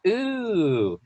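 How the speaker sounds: drawn-out mock reluctance, then slow refusal; put-off refusal. Client backing away from a desperate seller, acted put-off refusal. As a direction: recoil politely, as a wary client. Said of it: "They're gonna go".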